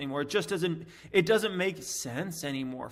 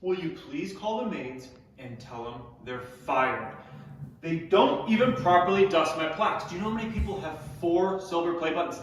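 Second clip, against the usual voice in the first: mock pampered celebrity complaining about the maids; hammed-up diva whining; spoiled rich star. Rich YouTuber pretends to complain to staff about his plaques.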